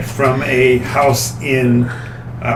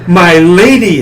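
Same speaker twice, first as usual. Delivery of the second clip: excited exclamation; 3 semitones higher, 7 dB louder than usual. Acted. NPC exclaiming.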